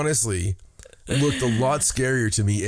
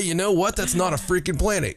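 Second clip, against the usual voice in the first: mock indignant; 7 semitones higher than usual. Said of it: "we just wanted to say".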